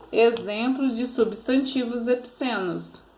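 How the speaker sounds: "Exemplos de substantivos epicenos" ditado devagar, sílaba por sílaba; slow dictation. Shown as a demonstration. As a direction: dite a busca bem devagar. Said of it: "fala assim". (ditado lento da pesquisa para a criança)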